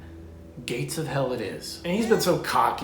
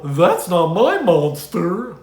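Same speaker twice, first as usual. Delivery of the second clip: "That's not my monster" slow, loud and grand; mock dramatic read; 4 semitones higher, 11 dB louder, much slower than usual. Shown as a demonstration. Host mocks the book as a riveting review, slow and grand. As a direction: boom it out like a movie trailer. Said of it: "might have made a riveting review".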